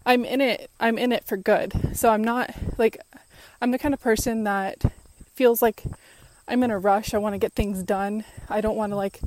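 winded, talking mid-run; breathless between words while jogging; out of breath. Real, not acted. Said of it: "sorry, I'm out of breath because I just".

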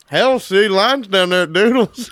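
imitating his friend's Southern redneck twang; mock redneck. Teasing a friend about his Southern accent. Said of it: "never heard your redneck come through".

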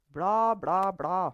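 loud, mocking interruption; dismissive blah-blah. A narrator's reading. Mother cutting off talk of correct words, loudly dismissive.

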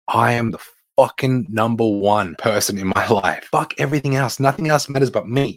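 bold, cocky self-talk. Pretend. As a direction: brag like you own the world. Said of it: "positive mind that says".

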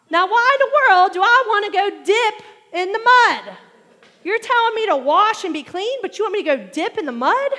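loud, high, incredulous complaint; indignant protest. Retold or imitated. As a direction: object to the muddy river in disbelief. Naaman's indignant objection, acted out.

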